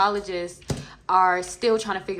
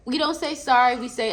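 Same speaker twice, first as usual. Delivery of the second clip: put-on prim voice; 5 semitones higher, 7 dB louder than usual. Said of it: "I don't know why I'm talking like that".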